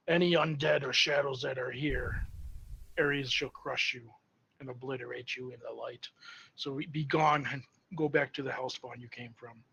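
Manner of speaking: loud, commanding banishment that eases a little; booming voice. Acted. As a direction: boom it out to banish the undead. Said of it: "use the booming voice".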